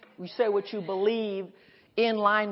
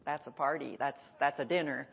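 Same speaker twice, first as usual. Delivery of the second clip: low, soft longing; quiet lonely thought; wistful inner voice; 6 semitones lower, 4 dB quieter than usual. Retold or imitated. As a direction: murmur it like you're left out. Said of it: "orchestra of".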